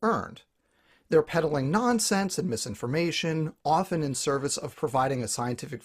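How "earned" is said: EARNED picked out with a pitch jump and fall; stress on EARNED. Real, not acted. Speaker underlining which credentials count, stressing EARNED. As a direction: give EARNED pointed emphasis. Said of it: "emphasis on the word earned".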